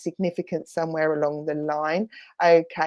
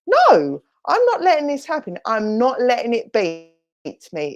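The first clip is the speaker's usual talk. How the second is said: defiant refusal; 4 semitones higher, 3 dB louder than usual. Retold or imitated. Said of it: "draw on that strength and go".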